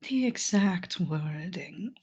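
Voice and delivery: talking while chewing nuggets; eating chicken nuggets. Real, not acted. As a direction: mouth full of chicken nuggets. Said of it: "Sorry, I've got chicken nuggies".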